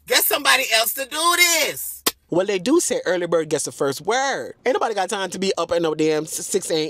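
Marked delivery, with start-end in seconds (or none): 0.1-1.9 emphatic refusal. Retold or imitated. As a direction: push back hard on the word do. Repeats the refusal more emphatically.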